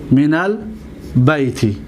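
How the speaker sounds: من البیت slowly, with a clear break before the last word. Shown as a demonstration. Teacher dictating the example to students, slowly word by word. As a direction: split من البیت into two slow, separate pieces. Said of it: "دقت بدید".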